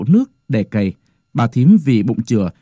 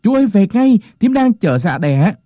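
Cuội calling loudly; 9 semitones higher than usual. A narrator's reading. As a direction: shout for the uncle from afar. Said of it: "la lớn lên".

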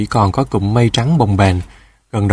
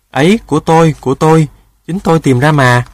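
higher, urgent protest; urgent claiming; 5 semitones higher, 4 dB louder than usual. A narrator's reading. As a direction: stake your claim in a hurry. Rooster grabbing and claiming the pearl. (vội vàng giành phần)

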